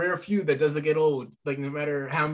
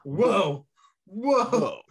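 whoa rising higher each time, crowd-style; mock crowd whoa; 3 semitones higher, 3 dB louder, much slower than usual. Fan imitating the crowd at the Usos' entrance, building whoas. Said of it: "it's like".

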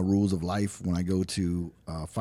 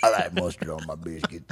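Karl impression; 3 semitones lower than usual. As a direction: mimic the movie man a bit. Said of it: "remember that guy?".

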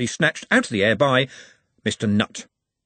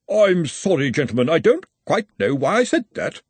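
higher, bewildered apology; backtrack, puzzled, pitched up; baffled apology; 6 semitones higher, 3 dB louder than usual. A narrator's reading. Wizard apologises to gentlemen for his outburst, higher and puzzled.

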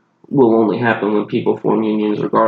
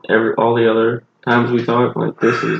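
rough, sleepy morning voice; just woke up, voice still groggy. Real, not acted. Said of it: "you hear how groggy my voice is".

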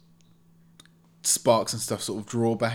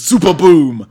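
big drawn-out battle cry, much higher and louder; yelled attack name; 8 semitones higher, 17 dB louder than usual. Acted. Game master yells out Epsilon's signature attack, shouting. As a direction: bellow it like a superhero's finishing move. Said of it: "he yelled".

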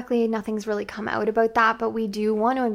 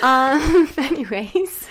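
British accent, giggling; shaking off a British accent; 5 semitones higher, 6 dB louder, much slower than usual. Real, not acted. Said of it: "what's with my British accent?".

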